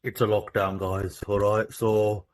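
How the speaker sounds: lightly voiced pompous mayor; mayor announcement. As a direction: address the town like a self-important mayor. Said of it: "This is your mayor speaking".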